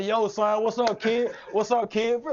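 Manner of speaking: playful put-on New York accent, greeting a friend; teen calling his friend in a mock New York accent. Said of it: "Folks be like, y'all ain't from New York".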